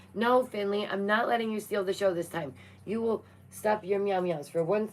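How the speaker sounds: playful scolding of a pet; scolding the cat. Real, not acted.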